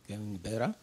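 ordinary delivery

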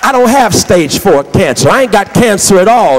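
emphatic, driving pulpit voice; forceful preaching. Real, not acted. Preacher marvels at the sick woman's offer, forceful preaching. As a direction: hammer the contrast home.

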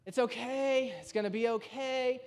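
quiet, lightly acted calm; self-calming. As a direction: act out soothing yourself through deep breaths. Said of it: "Like, right, deep breaths".

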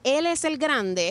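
"Él" lifted high in a slow phrase; stress on ÉL. Shown as a demonstration. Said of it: "con acento en la E".

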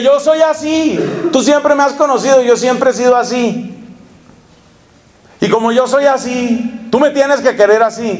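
tossing off excuses with mock pride; smug self-justifying. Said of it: "se convierte en que".

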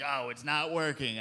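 usual speaking voice

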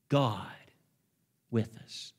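barely voiced hush; hushed whisper. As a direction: breathe it almost without voice. Preacher repeats refrain, hushed take.

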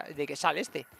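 ordinary talk

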